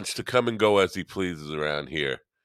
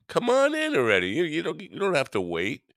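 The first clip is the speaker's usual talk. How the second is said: much higher, eager calling; high excited call; 12 semitones higher than usual. Real, not acted. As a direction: beckon him in, high and eager. Calling Brett into chat.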